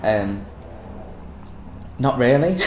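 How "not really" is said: tentative go at Australian; attempted Australian accent. Having a go at partner's accent, tentative Australian. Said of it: "I've been watching a lot of Lunatics".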